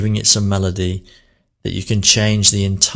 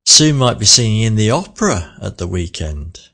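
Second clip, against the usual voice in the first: surprised. Shown as a demonstration. Teacher showing surprise on "opera". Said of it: "I really raised my voice as though I was surprised".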